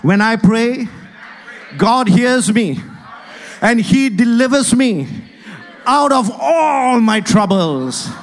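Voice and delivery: emphatic preacher leading a congregation to repeat; with conviction. Shown as a demonstration. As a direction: declare it like you believe it. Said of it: "You don't sound like, you don't look like you believe it".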